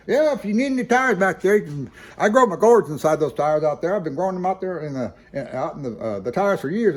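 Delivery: high-pitched old-timer impression, rambling on; Bill Clinton, tire seller. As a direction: imitate a chatty old character, starting loud and high, easing off. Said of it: "he was more fluent in the way he was talking".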